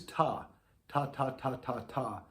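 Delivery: crisp, detached "ta" syllables; short separate "ta"s; staccato ta. Shown as a demonstration. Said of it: "and that's staccato, detached".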